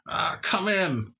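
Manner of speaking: high, slow croaky witch. Acted. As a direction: answer like an old witch. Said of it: "Sounds like a witch".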